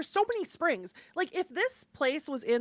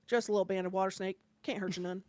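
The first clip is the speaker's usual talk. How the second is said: a hint of a deadpan little swamp boy, lower and softer; boy impression; 5 semitones lower, 8 dB quieter, faster than usual. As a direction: poorly imitate the boy who shows no emotion, low and soft. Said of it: "I'm gonna do an impression of this boy poorly".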